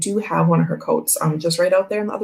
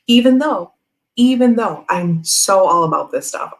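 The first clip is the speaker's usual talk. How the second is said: emphatic; 2 semitones higher, 5 dB louder than usual. Real, not acted. Emphatic self-correction.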